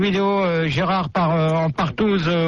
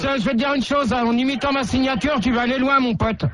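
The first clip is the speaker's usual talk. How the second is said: higher, taunting threat; threatening; 4 semitones higher than usual. Acted. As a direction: warn him with mock menace. Canular, menace au téléphone. (menace moqueuse au téléphone)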